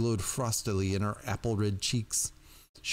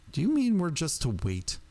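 strident indignation; 7 semitones higher than usual. Acted. Jerky-voiced witch protests to the silver-haired elder, stridently indignant. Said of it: "The jerky voice had grown stridently indignant".

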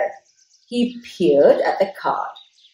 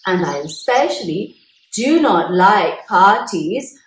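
announced. Acted. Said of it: "Bear announced".

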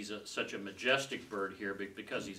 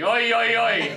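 much higher, loud screeching calls of "Oi"; eagle crying oi; 13 semitones higher, 15 dB louder, slower than usual. Acted. Teacher imagines the eagle crying woe over the earth, shrill and loud. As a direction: screech it like a bird of prey circling overhead. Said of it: "I imagine an eagle flying around going".

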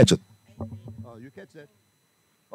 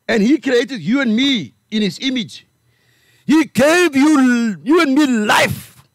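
rising, stretched preaching cadence; 4 semitones higher than usual. Acted. Preaching build.

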